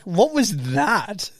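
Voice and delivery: slow, drawn-out mock bafflement; mock disbelief. Retelling the crowd's reaction to a bad accent, drawn-out mock disbelief. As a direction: stretch it out, pretending to be appalled.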